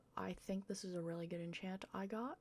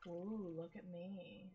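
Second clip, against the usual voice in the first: mock cute; 5 dB quieter, slower than usual. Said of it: "I'm so cute".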